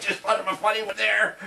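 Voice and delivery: high, giggly, amused at himself; laughing. Real, not acted. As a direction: chuckle through the words. Chuckling at own joke.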